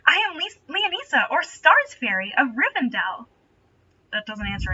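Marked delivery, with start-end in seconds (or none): 0.1-3.3 giggly sweet voice. Acted. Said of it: "Leonisa giggled".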